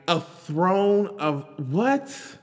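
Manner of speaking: disbelief. Real, not acted.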